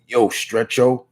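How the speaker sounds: straight New York tough guy; lightly voiced New York accent; a hint of comic-book bruiser; Ben Grimm. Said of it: "that's my voice of Ben".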